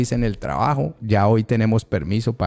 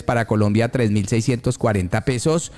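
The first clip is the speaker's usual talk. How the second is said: radio ad read. Real, not acted. Host reading exchange rates for the sponsor, announcer style.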